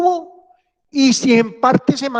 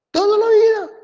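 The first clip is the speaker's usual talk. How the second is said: much higher, pushed echo of the phrase; emphatic echo; 13 semitones higher than usual. Real, not acted. Teacher hammers the sentence home to students, high emphatic echo. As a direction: echo "Toda la vida" high and pointed, stress on "vida".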